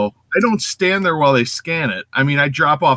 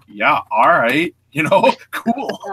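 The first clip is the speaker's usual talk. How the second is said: mock casual; 3 semitones lower, much slower than usual. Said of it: "I'm like".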